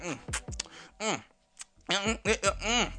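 repeated "mm" of delight; appreciative eating noises. Retold or imitated. Diners showing the food is bomb, wordless mms. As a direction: hum like the food is amazing. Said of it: "you making noises".

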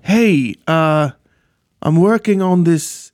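badly attempted New Zealand accent; terrible Kiwi accent. Director pitching to an actress, bad Kiwi accent. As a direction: have a clumsy go at sounding Kiwi. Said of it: "that's a terrible accent".

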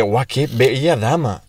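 slow, drawn-out mock admiration; mock lovestruck. Friend retells falling for a policewoman, slow mock swoon. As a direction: swoon slowly, as a retold reaction. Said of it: "Que yo me enamoré".

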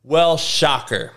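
slow, dry sarcasm; sarcastic. Real, not acted. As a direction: drag out "shocker" sarcastically. Sarcastic reaction.

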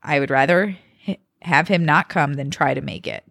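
measured podcast read-aloud; reading a post aloud. A narrator's reading. Podcast host reading a birthday Reddit post to co-host, expressive read-aloud. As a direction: read it out clearly, phrase by phrase.

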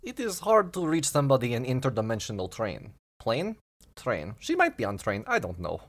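lightly voiced fortune-telling booth; a touch of mock-foreign fortune teller; fortune-teller machine. Booth explaining about the interdimensional train, lightly voiced fortune-teller machine.

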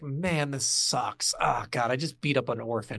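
low, dragging mock remorse; dejected regret. Player regretting beating an orphan, mock-dejected low voice. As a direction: let it sink low, deflated. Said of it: "you're just like".

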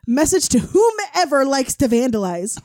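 slow, loud, threatening mom voice; stern threat. Retold or imitated. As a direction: read it like an angry warning. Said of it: "my mom posted and said".

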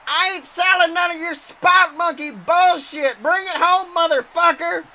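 heated in-ring trash talk. Acted. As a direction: bark it at your opponent mid-match. Angry wrestler berating opponent.

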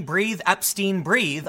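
slow, drawn-out mock yell. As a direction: stretch out "Breathe, Epstein, breathe" very slowly. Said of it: "why would someone be yelling".

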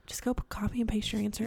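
quick hushed whisper. Real, not acted. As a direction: whisper it like a secret tip. Aside advice, dropped voice.

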